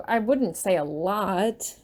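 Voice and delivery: halting, unsure and slow; awkward stammer. Acted. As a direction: stumble over it awkwardly. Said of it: "I stammer awkwardly".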